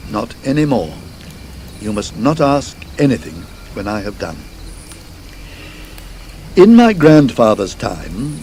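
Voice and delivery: lightly voiced landlord, forcing the words out; reluctant landlord. Landlord forcing out a tale to Mister Wraxall, grave and reluctant.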